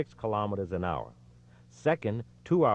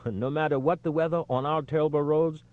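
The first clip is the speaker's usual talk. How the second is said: laughing; 7 semitones higher than usual. A narrator's reading. Desgrange laughs while objecting.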